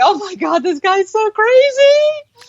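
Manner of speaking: high, slow amazed exclaim; stretched-out high astonishment; mock disbelief. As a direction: gape at the screen in disbelief. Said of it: "you're just like".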